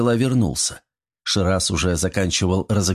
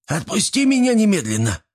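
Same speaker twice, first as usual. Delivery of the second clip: high shrill-free yell, much higher pitched; 10 semitones higher than usual. A narrator's reading. Dangled gremlin yells at Artyom to let go. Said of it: "стал кричать".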